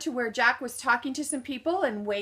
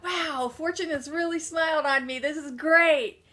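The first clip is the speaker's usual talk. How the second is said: smiling delight; 4 semitones higher than usual. Retold or imitated. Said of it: "And I was smiling".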